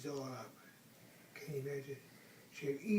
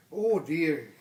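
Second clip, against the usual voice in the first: loud little bear's cry; 10 dB louder than usual. Acted. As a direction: cry out like a small bear. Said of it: "cried Big Bear".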